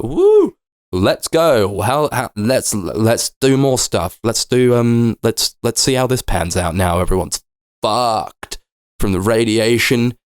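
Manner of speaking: a hammed-up whoop then sarcastic cheer; mock excitement. Viewer mocking the bleak film with a whooping fake cheer. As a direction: fake hype over the doom.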